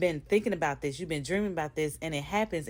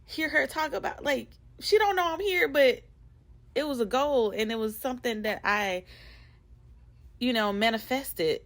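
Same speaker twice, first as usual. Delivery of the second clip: excited gushing; 7 semitones higher than usual. Retold or imitated. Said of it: "I was texting my friends".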